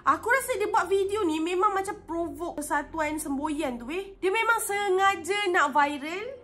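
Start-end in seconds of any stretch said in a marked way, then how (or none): 4.2-6.4 rising irritation. Real, not acted. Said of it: "intonasi aku dah naik dah ni".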